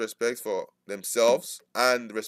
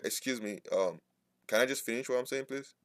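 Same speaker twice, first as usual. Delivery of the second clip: polite request; 7 dB quieter than usual. Shown as a demonstration. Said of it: "I will increase my voice a little bit".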